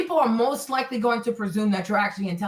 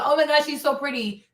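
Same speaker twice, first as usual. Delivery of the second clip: mocking gush; 3 semitones higher than usual.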